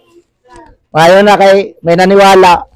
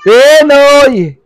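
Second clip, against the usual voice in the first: vendor's call; 3 semitones higher than usual. Real, not acted. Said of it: "sa pagsigaw ko".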